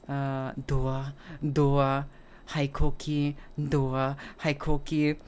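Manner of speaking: hushed monotone inventory; counting under breath. Retold or imitated. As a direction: tick each item off slowly, half to yourself. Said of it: "he starts, like, counting everything".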